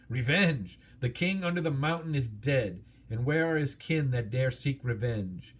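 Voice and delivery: lightly voiced dragon boasting of his might; a touch of a proud dragon gloating over the thief. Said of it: "he gloated".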